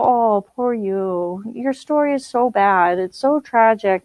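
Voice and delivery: slow, drawn-out mock sympathy; a syrupy fake "poor you"; mock pity. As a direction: pretend to pity them, sarcastically. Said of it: "waiting for me to go".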